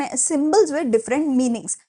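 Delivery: very slow, word by word for notes; slow dictation. Shown as a demonstration. Teacher dictating a definition to students, very slowly. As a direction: spell it out so they can write. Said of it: "dictating notes again".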